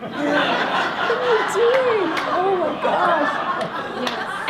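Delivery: high, playful hustler pitch, lightly laughing; hammed-up high mom offering a shady deal; mock drug-dealer mom. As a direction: sell it like a sly street hustler in fun.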